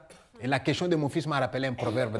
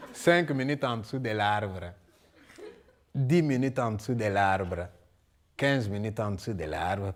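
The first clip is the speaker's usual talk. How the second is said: slow, drawn-out counting of the minutes; each count spaced out and dropping lower; 7 semitones lower, 3 dB quieter than usual. Acted. Waiting under the tree, slow weary count.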